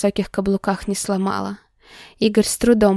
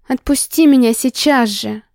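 angry demand; 4 semitones higher, 3 dB louder than usual. Acted. Heroine demanding release.

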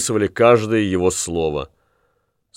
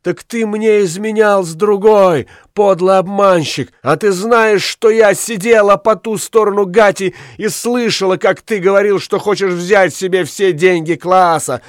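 furious betrayed screaming; 9 semitones higher than usual. A narrator's reading. Woman screams at her cheating lover in high fury. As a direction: hurl the betrayal at him at full pitch.

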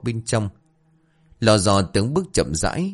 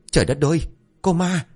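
terrified yell; 8 semitones higher, faster than usual. A narrator's reading. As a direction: cry out at seeing a ghost. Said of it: "hét toáng cả lên". (hoảng hốt hét lên)

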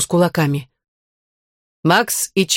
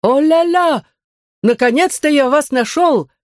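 much higher, exaggerated showy welcome; hearty greeting; 9 semitones higher than usual. Spanish teacher greeting the children, showy. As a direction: throw the greeting wide like a showman.

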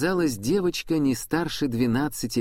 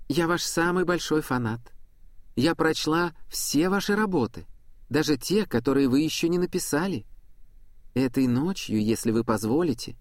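lightly voiced young girl; 5 semitones higher than usual. Angel girl speaks to Prudence.

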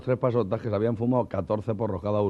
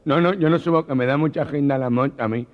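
gangoso; 4 semitones higher, 5 dB louder than usual. Acted.

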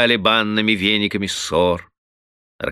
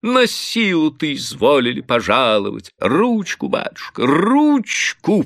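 high, pleading bailiff's whine; fawning plea; 9 semitones higher, 3 dB louder than usual. A narrator's reading. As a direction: beg to kiss the master's hand. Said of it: "прибавил он, уже загодя протягивая губы".

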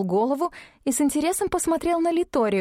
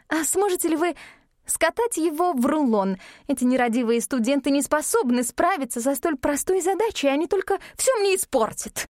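high complaining voice; 5 semitones higher than usual. Acted. Литория complaining.

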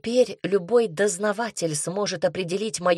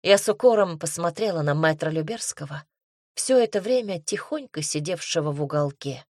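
plain reading voice

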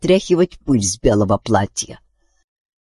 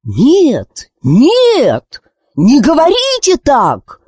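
high, croaking bird voice; cawing raven; 12 semitones higher, 3 dB louder, much slower than usual. Acted. Caliburn the raven begging them, high and cawing. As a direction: caw it out like an old raven. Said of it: "закаркал Калибурн".

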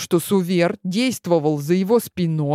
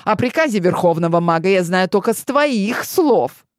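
defiant; 3 semitones higher, 4 dB louder than usual. Acted. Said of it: "дерзко посмотрел".

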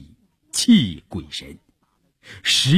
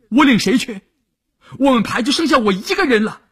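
distraught protest; 11 semitones higher, faster than usual. A narrator's reading. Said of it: "哭着去找连长说".

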